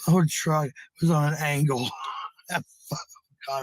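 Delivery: laughing through the words, loud and high; can't hold back the laugh. Real, not acted. Telling a friend about her old truck, laughing out loud.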